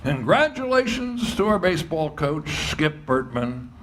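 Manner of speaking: booming PA announcement of the coach; light imitation of a stadium PA voice; ballpark announcer. Retelling the ballpark announcer's call.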